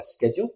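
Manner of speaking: SCHEDULE with a hard SK start; American pronunciation. Shown as a demonstration. Teacher admits using the American form, SK pronunciation. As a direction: say SCHEDULE as "sked-jool". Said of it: "I'm more American pronunciation".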